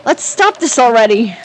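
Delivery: mildly panicked, urging a halt; nervous pleading. Acted. Man begging Rika to stop, nervous pleading.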